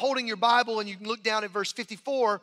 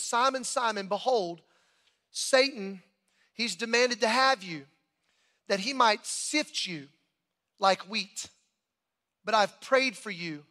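scripture reading; slower than usual. A narrator's reading. Reads scripture aloud.

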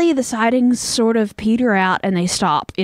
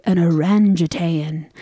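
slow, lower, badly faked Japanese accent; playful fake accent; 4 semitones lower than usual. Host reads quiz options to co-host, bad Japanese accent. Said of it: "trying to say it in fun ways".

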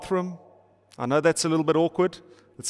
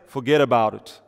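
lightly voiced Schwarzenegger, low; a hint of Arnie growl; Arnold Schwarzenegger; 5 semitones lower than usual. Dad to teenage daughter, a faint Schwarzenegger voice. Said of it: "my best Arnold Schwarzenegger impersonation".

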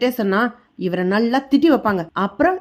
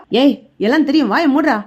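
louder, harsh order to shut up; angry hush order; 3 dB louder than usual. Acted. Father shuts his son up, louder angry command. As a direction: cut him off with a louder command.

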